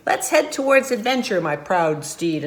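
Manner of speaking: loud, heroic call to the horse; gallant prince. Acted. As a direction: set off boldly as a storybook prince. Prince calls to his horse.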